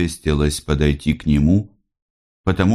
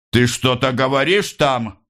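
higher, stern officer voice; stern officer call; 9 semitones higher than usual. A narrator's reading. Officer calling sternly into the corner. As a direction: demand it sternly. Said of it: "сурово крикнул офицер".

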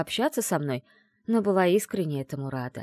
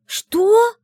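much higher, loud alarmed cry; alarmed shriek; 12 dB louder than usual. Acted. Narrator learning she is spellbound, shrieking in alarm. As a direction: shriek it in shock. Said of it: "возопила я".

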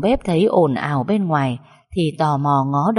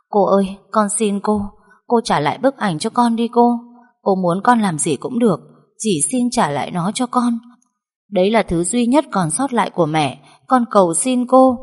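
pleading; 3 semitones higher than usual. Acted. Girl begs the stepmother for her mother's photo, pleading. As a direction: beg for the last photo of mother. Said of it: "Mây rối rít van xin".

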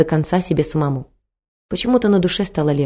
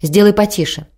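mild call, a bit higher and louder; 4 semitones higher, 3 dB louder than usual. A narrator's reading. Husband on the stairs calling to his wife, a mild shout. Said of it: "С лестницы крикнул".

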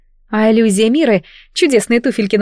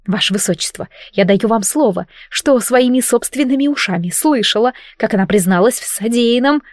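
politely, delicately. Acted. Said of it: "произнесла я вежливо и деликатно".

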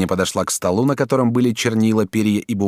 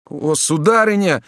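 slow, higher anguished outcry; a lightly voiced young man crying out; young man exclaiming; 9 semitones higher, slower than usual. A narrator's reading. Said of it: "вскричал молодой человек". (юноша слегка вскрикивает)

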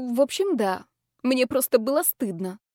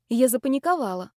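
usual speaking voice

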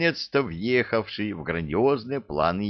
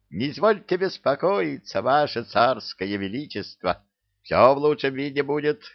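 high, brisk-spirited reassurance to the boss; eager obliging servant; 7 semitones higher than usual. A narrator's reading. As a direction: promise eagerly, voice pitched up. Obliging servant figure answers the tsar.

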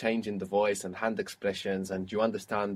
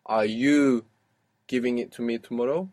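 you stressed, rest tossed off fast. Shown as a demonstration. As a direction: punch you, then rush through giving it to me tomorrow. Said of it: "what if we wanted to emphasize you".

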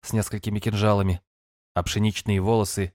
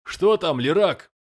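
booming bass; 8 semitones higher, slower than usual. Acted. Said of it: "послышался зычный бас".

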